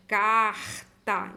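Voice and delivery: Carta with a long "car", separate "ta"; syllable-final R. Shown as a demonstration. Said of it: "vou colocar C A R".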